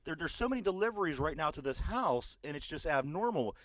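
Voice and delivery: a hint of a nosy neighbour explaining herself; mild mock Karen complaint; imitating the Karen. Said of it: "the woman starts saying".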